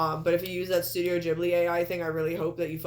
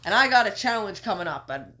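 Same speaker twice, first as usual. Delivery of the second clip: Kenny. Retold or imitated. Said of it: "and Kenny's going".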